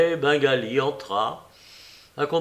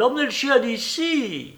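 higher call through the door; 10 semitones higher than usual. A narrator's reading. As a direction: order the dog taken away. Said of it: "cria-t-elle". (ordre lancé, voix plus aiguë)

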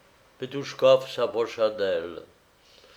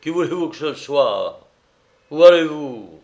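anxious protest; 4 semitones higher, 10 dB louder than usual. A narrator's reading. Servant anxiously stops his drunk master.

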